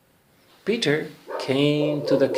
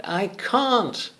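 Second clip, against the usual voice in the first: put-on little boy voice; 9 semitones higher than usual. Boy Peter fails to pull tree.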